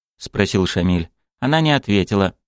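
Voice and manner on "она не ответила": ordinary delivery, nothing marked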